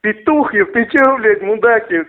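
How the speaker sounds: angry thug yell. Acted. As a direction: spit the insults up high. Insulting caller in heated row.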